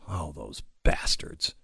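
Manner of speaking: soft, low sarcastic curse; mock outrage. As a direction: mutter it in fake disgust. Mock outrage at new jobs.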